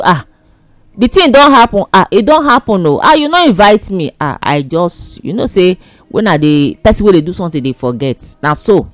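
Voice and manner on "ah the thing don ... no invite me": loud, high surprised friends; excited friends. Retold or imitated. Friends calling after the wedding.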